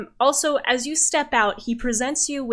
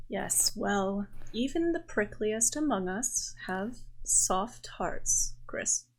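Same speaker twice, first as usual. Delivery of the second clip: softer, slow, measured character reply; gentle admission; 9 dB quieter, slower than usual. Acted. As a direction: let it out slowly and softly. Raphael answers Gris gently.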